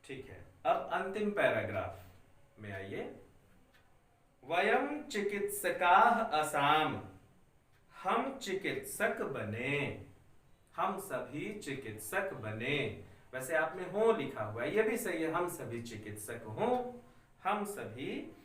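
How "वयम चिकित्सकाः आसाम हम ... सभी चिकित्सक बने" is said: slow, spaced dictation for students to write; धीरे धीरे बोलना. Shown as a demonstration. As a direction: read each word slowly so the class can copy. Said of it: "मैं इतना धीरे धीरे बोल रहा हूँ". (बच्चों को लिखवाने के लिए धीरे धीरे पढ़ना)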